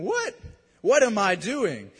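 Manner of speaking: mock astonishment at your own behaviour; bewildered self-questioning. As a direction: act out catching yourself in disbelief. Acted bewildered questioning of oneself.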